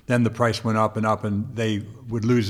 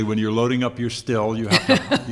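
mock hillbilly; 2 semitones higher, 5 dB louder than usual. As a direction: tease her with a put-on country twang. Teasing her as a hillbilly moonshiner.

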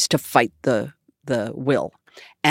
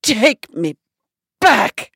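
higher and louder repeated demand; the diva loses patience and raises her voice; louder, sharper Bette Davis insisting; Bette Davis, insistent; 8 semitones higher, 5 dB louder, slower than usual. Retold or imitated. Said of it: "She goes".

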